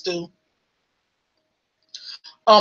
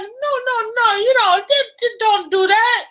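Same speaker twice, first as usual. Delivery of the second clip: mock panic; 11 semitones higher than usual. Husband stops her again.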